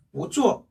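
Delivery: "보" rising, "쪼" falling sharply in fourth tone; weak-strong tones on "보쪼"; second tone then fourth. Shown as a demonstration. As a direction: lift "보", then drop "쪼". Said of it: "이성으로 해서".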